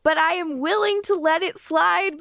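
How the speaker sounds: mock scold. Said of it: "Which I write in my notes".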